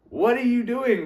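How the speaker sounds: high, loud mock bewilderment; baffled reaction. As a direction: act a startled listener, pitch jumping up. Imagined overwhelmed listener reacts.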